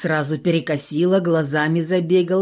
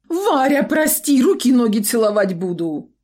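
tearful begging; 7 semitones higher, 4 dB louder than usual. A narrator's reading. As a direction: sob out the apology. Shopkeeper begging Varya.

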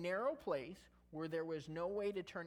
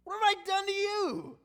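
much higher, louder squeaky donkey voice; talking donkey; 13 semitones higher, 11 dB louder than usual. Acted. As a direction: voice the donkey pleading with its master. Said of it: "and she said to Balaam".

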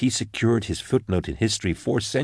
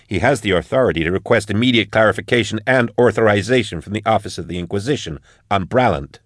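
higher, forceful marshal pushing back; a firm lawwoman standing her ground; Marshal Max; 4 semitones higher, 4 dB louder than usual. Acted. Max defying the interrogator, higher and forceful. Max voiced, raised pitch.

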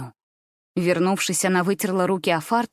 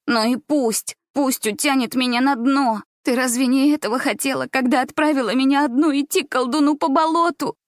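shouted through tears; 5 semitones higher than usual. Acted. Gulya shouting at grandmother through tears, tearful and bitter. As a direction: fling it at her through tears. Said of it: "Сквозь слёзы прокричала Гуля".

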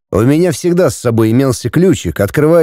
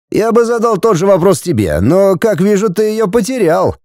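higher, taunting voice; mock him about losing her; 8 semitones higher than usual. Andrei taunts the narrator about losing Regina, high and mocking. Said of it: "насмешливо хмыкнул Андрюша".

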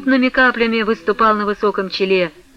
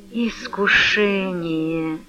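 soft, slow breathy sigh; half-whisper sigh; 5 dB quieter, much slower than usual. A narrator's reading. Vasily sighs to himself, half-whispered and slow. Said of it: "с глубоким вздохом, полушёпотом".

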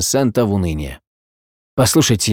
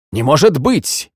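slow, higher, hammed-up surprise; theatrical exclamation; 4 semitones higher, slower than usual. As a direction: overplay the shock like a stage actor. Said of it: "театрально воскликнул он".

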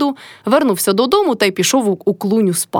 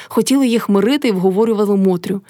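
usual speaking voice

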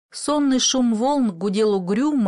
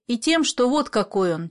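usual speaking voice

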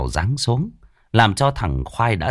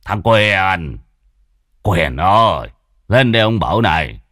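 raised voice calling a servant; calling loudly; 3 dB louder than usual. Acted. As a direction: call the servant from across the house. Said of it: "ông lại lớn giọng".

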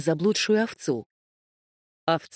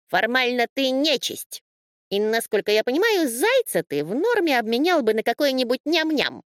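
slightly higher, lecturing sheep; a hint of the pedantic sheep, matter-of-fact; lightly voiced know-it-all sheep; 7 semitones higher than usual. A narrator's reading. Sheep voice held in story. (слегка высокий голос овцы-всезнайки)

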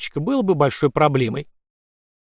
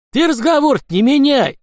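much higher, loud angry bark; furious shout; angry snarl; 12 semitones higher, 6 dB louder than usual. Acted. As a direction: snap back and refuse to be put off. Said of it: "огрызнулся Гриня".

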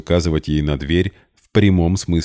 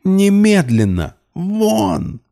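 much higher, louder, voice cracking into falsetto; shrill scream; 4 dB louder, much slower than usual. A narrator's reading. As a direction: break into a shriek. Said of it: "голос сорвался на фальцет". (визгливо, на фальцете)

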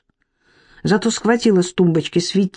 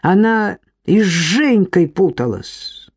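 barked threat; slower than usual. Acted. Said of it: "рявкнув".

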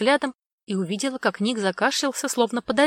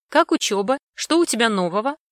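cheerful mom voice, higher and louder; mom on video call; 3 semitones higher, 6 dB louder than usual. Acted. Mom calling her daughter on video, bright and loud. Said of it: "спросила она".

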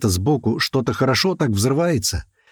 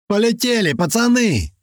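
high gleeful yell; 11 semitones higher than usual. A narrator's reading. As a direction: cheer the boys on as you jump. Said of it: "орёт Котлета". (радостный крик)

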